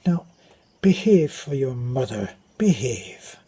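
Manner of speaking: imitated priest's close-up warning; understated Irish priest telling off a child; close admonishing priest. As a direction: lightly voice a priest leaning in to admonish. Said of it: "he would speak closely to me like that".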